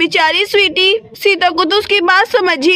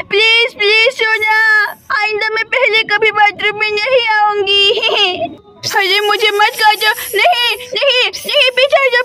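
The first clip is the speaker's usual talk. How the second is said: tearful pleading; 2 semitones higher than usual. Acted. Snake attacking, girl begs Sona.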